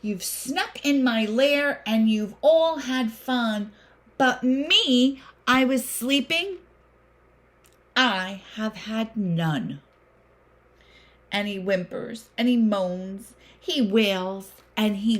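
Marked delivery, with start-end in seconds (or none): 0.0-9.8 complaining bear. Acted. Bear complains to his guests.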